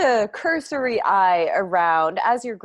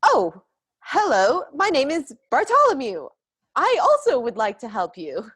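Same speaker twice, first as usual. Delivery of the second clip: put-on higher, louder eager young lad; nervous adolescent; 6 semitones higher, 4 dB louder than usual. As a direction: greet a stranger like a nervous young messenger. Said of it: "nervous adolescent energy".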